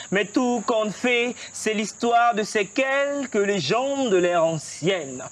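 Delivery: declaimed like a stage poet; bold, measured spoken-word recitation; slam poetry. Shown as a demonstration. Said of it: "Tu nous déclames un texte?". (slam déclamé sur scène)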